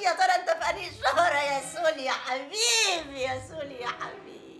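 hammed-up sob calling the lost son; milk the grief, fading into tears; exaggerated tearful lament; overdone weeping. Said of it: "كده اوفر يا كاميليا".

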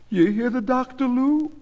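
high, loud, insistent; coaxing wife. A narrator's reading. Goldie to her husband in the ambulance, coaxing.

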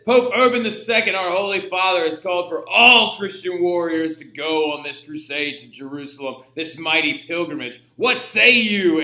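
loud, proclaiming crowd address, slowing at the end; preacher's rallying call. Retold or imitated. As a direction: rouse the crowd like a hermit preacher. Peter the Hermit rallying crowd.

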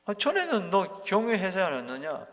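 a light sneer in the question; slightly mocking. Eliphaz taunting suffering Job, mildly mocking. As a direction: needle him a little with scorn. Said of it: "약간 비웃음조로".

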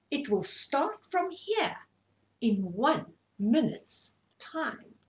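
high, slow peacock voice settling down; drawn-out showy bird, easing back; proud peacock. Acted. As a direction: peacock finishing the announcement slowly.

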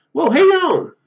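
high, loud call to hang on; urgent shout. Acted. Hero calls to the falling girl, urgent high shout. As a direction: shout out in sudden alarm.

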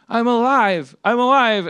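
loud, high, triumphant announcement; mock revival cry. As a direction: proclaim a miraculous pretend comeback. Cody revives in pretend game.

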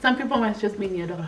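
laughing. Real, not acted. Laughing translation.

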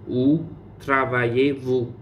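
où travaillez-vous said slowly and evenly; slow model. Shown as a demonstration. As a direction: spell it out slowly for the class. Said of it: "teacher repeats slowly".

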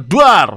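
sudden playful "boom"; mock jump-scare bang. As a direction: burst out a pretend explosion noise. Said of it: "jump scare".

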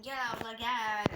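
hawking like a market seller; melodic street vendor shout. Pretend. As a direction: call out like a bazaar vendor. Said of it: "Pazardan elma alırım gibi".

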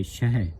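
ਸ਼ਹਿ as "shahe", h pronounced; sounded h. Shown as a demonstration. Teacher models the reading, ਸ਼ਹਿ with audible h. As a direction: let the h in ਸ਼ਹਿ be heard, falling. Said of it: "ਇੱਥੇ ਵੀ ਹਾ ਲੱਗਾ ਹੈ".

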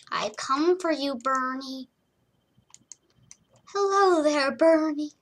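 playful, vaguely British put-on accent. Playing with Bernie the pet hedgehog, in a mock British accent. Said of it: "Stop saying that British accent".

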